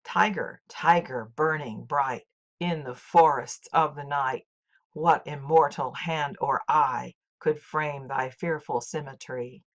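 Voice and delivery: slow poem reading, strong-weak beat on every pair; trochaic recitation. Shown as a demonstration. Teacher reciting Blake so viewers hear the trochees. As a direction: recite with a steady DUM-da pulse. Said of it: "Let's listen to a few lines from that poem".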